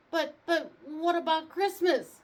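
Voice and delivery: high, loud desperate cry. A narrator's reading. Santa carried off to jail, high desperate cry. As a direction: cry out in despair. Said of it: "Santa cried".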